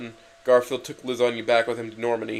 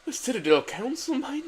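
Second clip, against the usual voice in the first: serious tone; 11 semitones higher than usual. Acted. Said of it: "said Miranda to Garfield in a serious tone".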